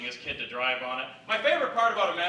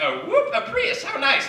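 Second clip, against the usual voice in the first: very high, breezy mock delight; 5 dB louder than usual. Customer after a meal, high mock delight. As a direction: chirp it like it was easy. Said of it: "just been like".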